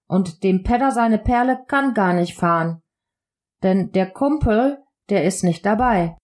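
Ruhr-area colloquial German; casual Ruhrpott sociolect with regional pronunciation; Ruhrpott dialect. Shown as a demonstration. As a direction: speak it like a local from the Ruhrpott. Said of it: "Doch etwas zu meinem Soziolekt".

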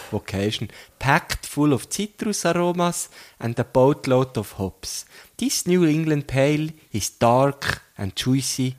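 reads the label like a beer commercial; mock ad read. Reads beer can ad text.

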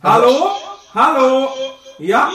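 loud calls ringing back like an echo. Real, not acted. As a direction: shout hello into a cave and let it echo. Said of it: "Ist hier ein Echo?".

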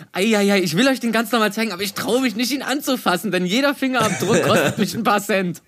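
anxious collector afraid to touch; timid sneaker collector. Retold or imitated. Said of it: "das ist gar nicht so".

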